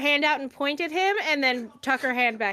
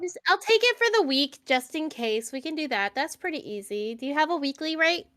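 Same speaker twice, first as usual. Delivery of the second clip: put-on timid, hesitant young woman; awkward girl voice. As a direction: play her shy and unsure. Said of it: "very good, like, awkward girl voice".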